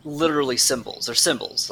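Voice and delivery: normal talking voice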